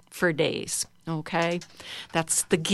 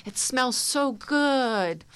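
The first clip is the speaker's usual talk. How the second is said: admiring the flowers; 4 semitones higher than usual. Shown as a demonstration. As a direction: linger on each word as if it smells wonderful. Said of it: "and you sort of just, you know".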